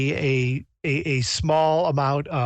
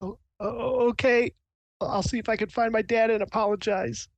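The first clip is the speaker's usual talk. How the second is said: higher, hesitant, shaken voice; meek, tearful agreement; 8 semitones higher than usual. Acted. Shaken miner agrees to apologize to dad, meekly. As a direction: stammer into a timid okay.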